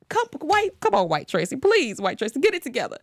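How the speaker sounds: high, pleading call to a TV character; lightly hammed-up plea; mock pleading. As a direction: beg her to get it together.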